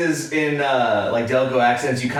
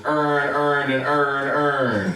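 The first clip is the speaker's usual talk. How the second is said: put-on Baltimore accent, every vowel flattened to "earn"; mock Baltimore "earn, earn"; much slower than usual. Explaining the Baltimore accent to friends, mock Baltimore drawl. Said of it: "if you're from Baltimore".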